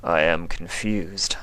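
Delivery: slow breathy alien whisper; whispering changeling. Acted.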